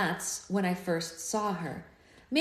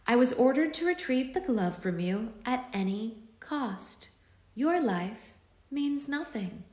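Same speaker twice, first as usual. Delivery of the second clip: cold villainess; 5 semitones higher than usual. A narrator's reading. Villainess threatens hero.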